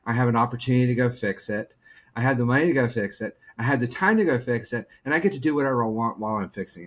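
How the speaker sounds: fast, eager rundown of blessings; lightly voiced gratitude; grateful excitement. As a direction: count your blessings in a rush. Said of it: "It's like".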